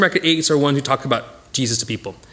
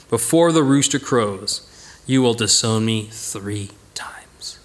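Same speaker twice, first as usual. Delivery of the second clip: whispered memory; 6 semitones lower, slower than usual. Retold or imitated. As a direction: breathe it out like a haunting memory. Peter recalls Jesus' words.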